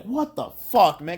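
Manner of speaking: re-enacted outburst at the screen; retold yell. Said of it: "yelling at my T V".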